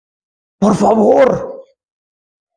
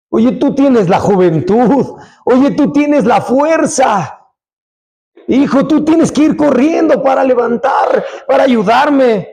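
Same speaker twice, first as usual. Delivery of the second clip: scolding parent. Retold or imitated. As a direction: call the lazy son to come help, insistently. Pastor scolds idle teen son.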